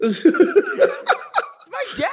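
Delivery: put-on high whiny child's wail; hammed-up toddler tantrum; mock temper tantrum. Retelling how he yelled at the kid, a high whiny tantrum. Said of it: "having a whole temper tantrum".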